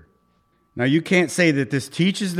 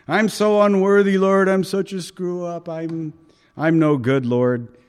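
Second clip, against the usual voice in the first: hammed-up whine; 4 semitones higher than usual. Believer grovelling to the Lord, hammed-up whine. Voicing self-pitying believer.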